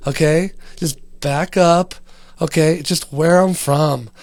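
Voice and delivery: hammed-up indignant guy backing people off; loud mock-offended protest; mock defensive rant.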